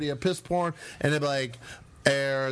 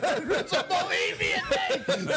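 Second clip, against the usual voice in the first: mocking imitation; 9 semitones higher than usual. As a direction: mimic the guy who won't listen. Imitating someone mishearing the name.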